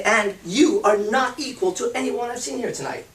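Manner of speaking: confident compliment. Shown as a demonstration. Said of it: "and you say".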